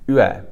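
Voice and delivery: "yue" starting on a barely rounded u, gliding into e; pinyin ue glide. Shown as a demonstration. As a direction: slide from u into e on "yue". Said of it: "then add an E to it".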